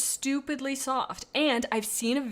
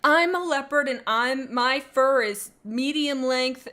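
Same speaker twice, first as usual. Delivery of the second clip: loud, higher, slow kid pretending to be a leopard; kid playing leopard; 4 semitones higher, 6 dB louder, slower than usual. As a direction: proudly announce your animal like a child at play. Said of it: "and you go".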